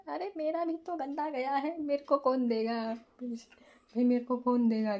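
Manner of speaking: half-joking wail about who consoles her; mock self-pity. Real, not acted. Vlogger asking viewers who will console her, mock whiny.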